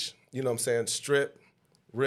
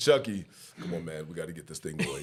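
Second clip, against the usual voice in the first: urgent, rousing, fired-up shout; 8 semitones lower than usual. Retelling what a teammate said in the huddle: imitating Jesse. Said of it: "He sound like him".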